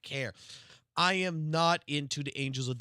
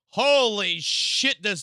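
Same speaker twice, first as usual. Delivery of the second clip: real awe; 5 semitones higher, 7 dB louder, much slower than usual. Real, not acted. Streamer sees another leak.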